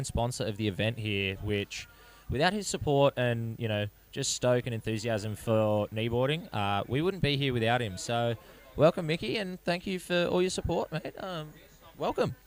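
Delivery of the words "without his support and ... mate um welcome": excited welcome. Real, not acted. Host welcoming headline sponsor.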